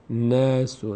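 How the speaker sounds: "ناسو" with a light front æ in the first syllable; thin vowel. Shown as a demonstration. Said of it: "نا هم پر خونده نمیشه".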